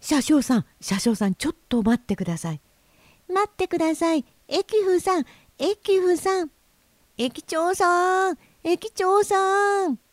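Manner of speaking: high, urgent cries for help; flustered calling out. Acted. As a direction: call the railwaymen in a rising panic, ending long and high. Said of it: "三匹の金魚は大変慌てまして".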